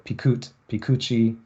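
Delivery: "pikut" slowly then "pikuchi" with the stress left in place; same stress both forms. Shown as a demonstration. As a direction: repeat "pikut, pikuchi" without shifting the stress. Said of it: "no shift".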